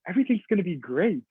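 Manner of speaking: mock cheerful. Shown as a demonstration. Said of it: "smile at them and be like".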